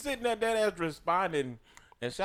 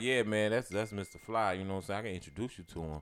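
low, softer retold reply; casual self-quote; 7 semitones lower, 5 dB quieter than usual. Man telling girlfriend about a podcaster, low-key reply. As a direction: play it down, low and trailing quieter. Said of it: "I was like".

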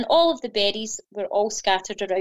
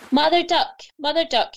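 higher-pitched, mildly raised call; 6 semitones higher than usual. A narrator's reading. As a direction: call out to get her attention. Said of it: "he called".

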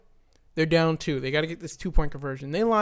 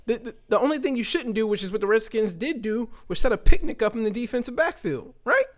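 exasperated rant; 6 semitones higher than usual. Real, not acted. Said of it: "So I'm hot".

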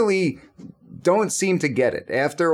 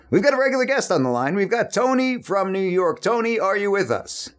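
higher-pitched, quick on-air caller intro; radio host introduction; 5 semitones higher than usual. Acted. Host putting regular guest Tony on the line, in radio announcer style.

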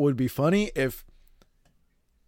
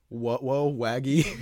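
Scooby-Doo voice; much slower than usual. Pretend. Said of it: "Scooby-Doo if you can't pronounce his R's".

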